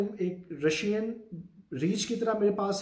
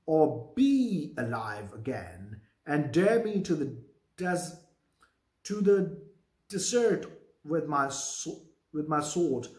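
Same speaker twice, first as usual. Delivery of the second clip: slow, deliberate Shakespeare read-aloud; measured dramatic recitation; play reading; 2 semitones lower, much slower than usual. Acted. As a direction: read the verse out slowly, word by word. Reads Macbeth's lines.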